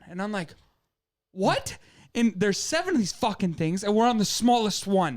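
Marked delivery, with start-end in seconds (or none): 1.3-1.8 retold shock. Told it's the baby one.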